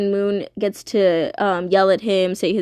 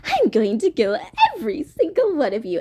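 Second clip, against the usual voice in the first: lightly voiced gleeful villain; villain Ruin; 2 semitones higher than usual. Ruin threatens everyone, in a lightly voiced gleeful villain voice. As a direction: tease them like a playful villain. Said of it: "he basically is like".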